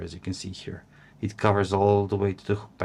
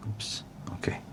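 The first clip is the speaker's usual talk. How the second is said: oops; 11 dB quieter than usual. Real, not acted. Fumbles the wrap.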